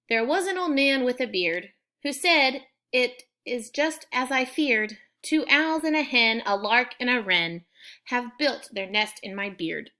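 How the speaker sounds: bouncy limerick read with a strong beat; lively poem reading. Shown as a demonstration. Teacher reading the limerick example to students, lively and rhythmic. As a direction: give the limerick some life and bounce. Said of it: "it's got a little bit of life when you read it".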